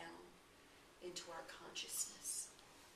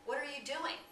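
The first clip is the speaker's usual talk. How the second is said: puzzled call; 7 semitones higher, 8 dB louder than usual. Retold or imitated. Passerby questions man frozen on road.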